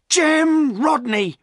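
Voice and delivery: high, slow loud accusing call; accusing shout; cried out. A narrator's reading. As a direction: call the suspect out. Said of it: "cried Silas".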